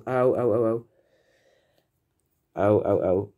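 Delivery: sharp yelps of real pain; quick ows after touching hot glue; burnt finger. Real, not acted. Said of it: "I burnt my finger right there".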